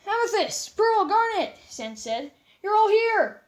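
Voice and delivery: high, bright-voiced happy greeting; joyful reunion. Sans seeing his old friends again, joyful high greeting. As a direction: greet them overjoyed to see them again.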